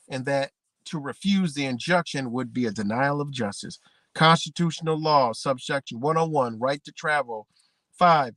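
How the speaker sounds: measured, formal reading of a statute; reading legal text. Shown as a demonstration. Reading the statute to viewers, formal reading voice. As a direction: read the law book out to viewers. Reads law text aloud.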